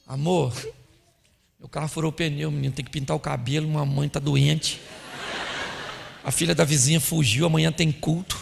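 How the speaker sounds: soft, low run-on list of news; mock wife reeling off unrelated troubles quietly; wife's rambling report. Wife dumping all the news on husband, rambling softly. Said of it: "A mulher".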